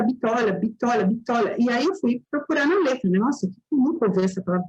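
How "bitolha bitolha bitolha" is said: "bitolha" chanted as a mishearing of a band's name; copying a French-accented band name as "bitolha"; imitated French pronunciation. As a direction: repeat "bitolha" evenly, stressed on TO. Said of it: "o professor repetia".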